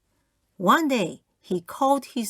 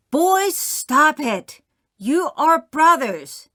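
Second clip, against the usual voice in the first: put-on slow, louder scolding of the boys; stern mother; 7 semitones higher, 6 dB louder, slower than usual. Mother stopping her sons' fight in public, slow stern scold. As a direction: lay down the law, word by word. Mother breaks up arguing sons.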